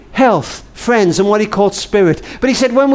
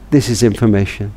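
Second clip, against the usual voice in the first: operator voice; 10 semitones lower than usual. Retold or imitated. A new operator answers.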